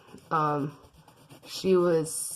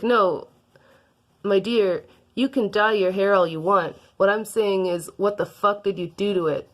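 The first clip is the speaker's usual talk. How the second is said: mocking villain; 3 semitones higher, 5 dB louder than usual. Villain mocks her hair.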